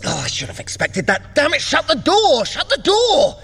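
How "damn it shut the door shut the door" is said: high, loud panicked yelling; shouting orders much higher and louder; urgent shout. Acted. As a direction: bark the order as the wards go off. Alarm at magical wards.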